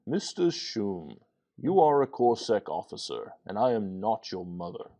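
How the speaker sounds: lightly voiced prim and proper female mockery; teasing his droid in a hint of a prissy voice; mock prim lady. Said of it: "Mocking a female, prim and proper".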